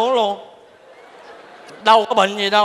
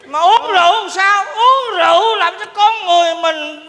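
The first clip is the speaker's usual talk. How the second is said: put-on higher, rising drunken sermon on drink; tipsy friend lecturing the table about liquor; drunken preaching; 5 semitones higher than usual.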